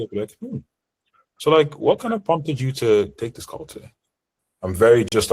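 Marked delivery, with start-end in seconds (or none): 0.4-3.9 higher pitch with upward inflection; open, inquisitive question, lilting up; curious, open tonality. Shown as a demonstration. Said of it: "a bit more curiosity".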